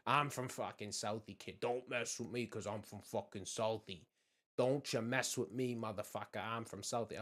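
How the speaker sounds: lightly mocked Southie braggart; a hint of South Boston bluster, imitating; Southie tough guy. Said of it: "everybody that I've met from Southie".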